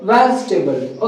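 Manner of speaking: वेजिटेबल slowly as VEZ-tuh-bul; short three-part वेजिटेबल; corrected pronunciation. Shown as a demonstration. Teacher repeating the answer for students, corrected. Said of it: "क्या बोलेंगे".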